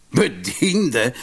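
slow, scornful echo of the word; a touch of mockery; mocking laugh. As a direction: drag it out with disdain. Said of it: "lachte de speelman spottend".

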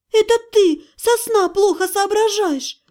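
whining. Acted. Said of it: "поскулила я".

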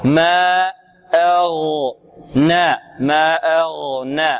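slow ما أغنى with long vowels and a light n; careful recitation demo. Shown as a demonstration. Teacher models the verse for class, careful recitation demo. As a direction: stretch ما أغنى, نون kept thin. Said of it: "مرققة".

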